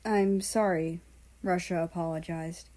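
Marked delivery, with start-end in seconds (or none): 0.0-1.0 voice cracking. Acted. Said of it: "His voice cracked a little".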